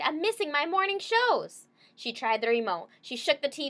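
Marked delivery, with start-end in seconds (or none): 0.0-1.7 high, loud upset wail; whining wail. Acted. Girl wailing to her dog about her shows, high and loud. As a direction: complain like the world is ending. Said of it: "Penny Lee cried".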